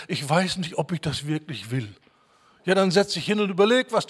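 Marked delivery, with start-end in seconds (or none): 0.1-1.9 lightly acted indecision, sinking at the end; mock confused waverer. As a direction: imitate someone muddled and unsure. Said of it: "und reden so verwirrt".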